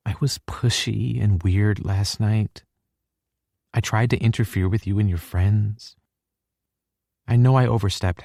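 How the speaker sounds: put-on upset girlfriend voice, fragile; upset young woman. A narrator's reading. Hallie figure, apologetic.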